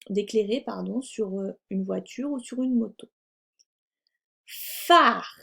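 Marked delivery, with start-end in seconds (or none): 4.5-5.4 PHARE called loud, with lengthened f and r; dictation. Shown as a demonstration. Teacher dictates the first word, emphatic dictation. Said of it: "nous allons faire une dictée de mots".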